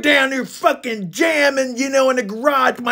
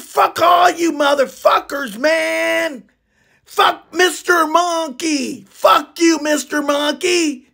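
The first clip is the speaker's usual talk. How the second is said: raised-pitch indignant ranting; angry quarrel; 3 semitones higher than usual. Retold or imitated. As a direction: retell a band bust-up with heated indignation. Acted quarrel as the singer is banned.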